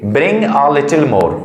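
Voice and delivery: very slow, every word spaced out; slow model sentence. Shown as a demonstration. Teacher to parents, modelling a phrase very slowly. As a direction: spell it out slowly so the class can copy. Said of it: "तो कैसे बोलेंगे?".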